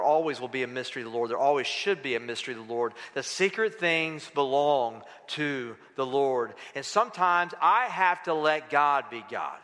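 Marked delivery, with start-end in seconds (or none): 3.1-6.5 slow, low, deliberate phrasing; measured recitation. Real, not acted. Preacher repeating his seven-word answer to church, slow and measured. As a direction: set the words down slowly.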